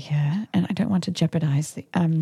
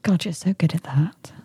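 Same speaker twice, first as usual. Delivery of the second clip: put-on British accent creeping into the words; British accent slipping out. Woman praising her partner's sweet talk, British accent slipping out. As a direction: let a British accent break through. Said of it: "you keep bringing your real accent out".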